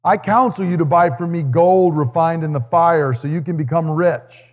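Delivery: measured, solemn Bible reading voice; scripture reading. Acted. Pastor reads the letter to Laodicea to the congregation, solemn scripture reading. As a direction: read the words of Jesus out to the church with weight. Reads Revelation passage aloud.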